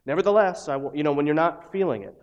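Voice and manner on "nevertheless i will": mock-chipper, forced brave tone; cheesy fake piety. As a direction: parody a hollow brave face. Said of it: "fake, cheesy, cliche things like".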